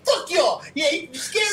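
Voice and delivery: lightly shouted playful defiance; gung-ho defiance. Retold or imitated. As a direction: act out a cocky comeback. Acting out a gung-ho action player.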